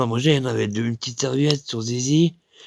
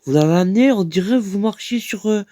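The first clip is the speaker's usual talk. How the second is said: raised-pitch mocking pal voice; lightly voiced cheeky pal, teasing; mocking buddy; 6 semitones higher than usual. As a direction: tease him like a cheeky mate. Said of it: "un pote, il fait".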